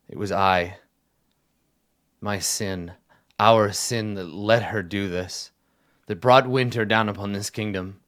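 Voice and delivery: building from measured to loud; anguished confession. Acted. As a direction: confess with mounting royal anguish. King confesses sin, building in grief.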